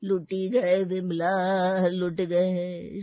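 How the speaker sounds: very slow, heavy lament; slow mournful lament to his wife; grief-stricken lament. Acted. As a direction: drag each word out in grief.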